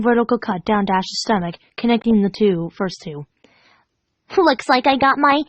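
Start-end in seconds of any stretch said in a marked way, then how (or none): 4.4-5.4 slow, giggly creepy tease; giggling. Acted. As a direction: tease her through a giggle. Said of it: "Pinkie giggled".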